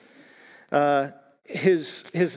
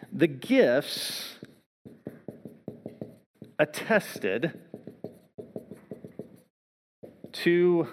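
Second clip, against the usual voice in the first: slow dictation; 4 dB quieter, much slower than usual. Real, not acted. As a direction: dictate word by word with long silences. Dictating fourth point while writing.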